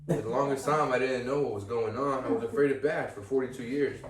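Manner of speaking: lightly voiced reminiscing narrator; touch of wistful sitcom narration; Wonder Years narrator. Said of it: "sounds like a Wonder Years".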